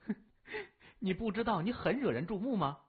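teasing, quick, through a giggle; laughing. Acted. Gao Huiyu teasing Wendong, laughing. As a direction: laugh at him playfully. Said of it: "高慧玉笑呵呵地说".

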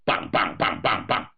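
imitated knock on a door; knocking sound. A narrator's reading. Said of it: "赶紧敲门".

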